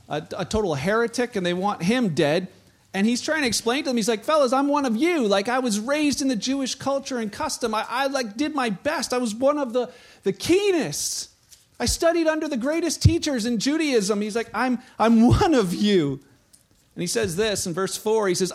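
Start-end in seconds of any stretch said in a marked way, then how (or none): 4.2-14.2 higher, earnest plea to the fellas; Paul pleading with crowd. Retold or imitated. Preacher voicing Paul pleading with the angry crowd, higher. 14.5-16.2 slow, louder, leaning on one; emphatic slow plea. Retold or imitated. Paul insisting to the crowd he is one of them, slow and louder.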